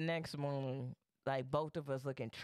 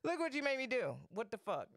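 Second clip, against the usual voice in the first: much higher mock-outraged whine; indignant blame; 9 semitones higher, faster than usual. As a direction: replay the accusation, hammed up. Repeats acted blame amid laughter.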